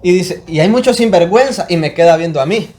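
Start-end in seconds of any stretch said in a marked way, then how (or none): 0.5-1.6 imitating a pastor's raised, higher scolding; forceful Honduran preacher. Pastor rebuking his congregation while eyeing one man, forceful mock preaching. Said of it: "eso tenía este pastor que le digo".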